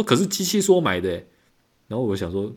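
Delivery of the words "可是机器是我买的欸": high indignant lady caller; imitating customer. Customer insists she bought it.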